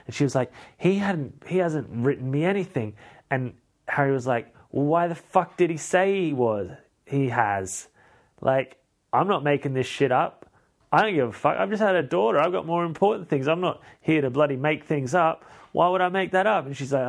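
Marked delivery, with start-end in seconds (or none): 0.8-2.9 high-pitched, incredulous retold protest; acted-out affronted denial; mock indignant disbelief. 4.7-16.7 high, indignant retold protest; acted-out affronted self-defence; mock exasperation. Acted exasperated husband defending himself.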